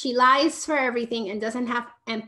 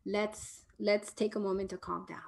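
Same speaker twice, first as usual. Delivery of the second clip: calming; 6 dB quieter than usual. Shown as a demonstration. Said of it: "bring her back to the body".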